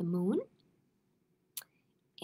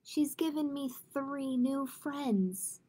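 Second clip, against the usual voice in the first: slow, tender delivery; gentle, contented little mouse; smiling; 3 semitones higher, 4 dB quieter, slower than usual. Acted. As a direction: say it slowly with a soft smile. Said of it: "smiled Mouse".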